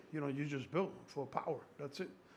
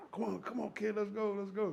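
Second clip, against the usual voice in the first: higher, urging coach calls; hyped coach; 6 semitones higher than usual. Retold or imitated. Coach urging the guest through a heavy lift, excited. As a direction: push the lifter through the rep.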